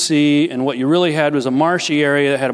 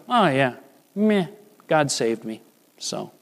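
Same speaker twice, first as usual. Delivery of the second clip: 1 mock bored shrug; 5 dB quieter than usual. Mocking indifferent believer.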